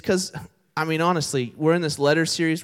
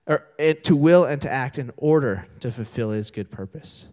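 scripture reading; 3 semitones lower than usual. Acted. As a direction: read the verse with weight. Reads the scripture.

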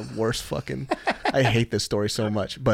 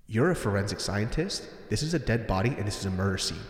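inner scolding; 6 dB quieter than usual. Retold or imitated. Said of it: "I had a snap moment".

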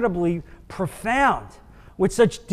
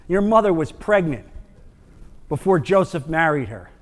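sneering taunt; 5 semitones lower, 5 dB quieter than usual. Acted. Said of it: "That was".

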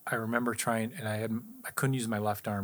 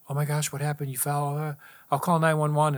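wife's panic; 6 semitones higher, 6 dB louder than usual. Retold or imitated. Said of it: "She goes".

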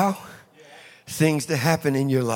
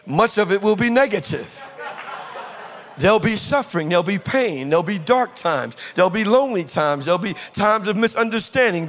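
higher, rhythmic preacher's list; emphatic preaching; 5 semitones higher than usual. Real, not acted. Preacher warning church of hard times ahead, emphatic. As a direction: pile up each hardship with raised pitch.

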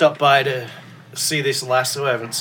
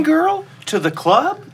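mock talking to a dog; 4 dB louder, slower than usual. Jokingly voicing talk to Lassie.

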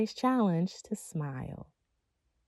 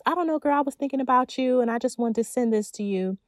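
sweet friend voice; 5 semitones higher than usual. Retold or imitated. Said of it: "cash apping you".

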